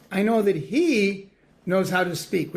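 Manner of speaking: "he" stressed, as if set in italics. Shown as a demonstration. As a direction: lean on the word "he". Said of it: "there's an italics for "he".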